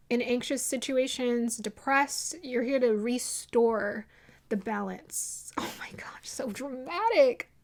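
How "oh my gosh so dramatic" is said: unvoiced, amused whisper to herself; whispered aside. Real, not acted. Reader whispering at her own dramatic message.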